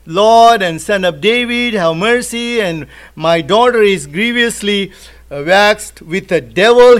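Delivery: loud, pleading cry retold by a preacher; retold shouting plea. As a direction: imitate a mother calling out for help. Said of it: "following and shouting and saying".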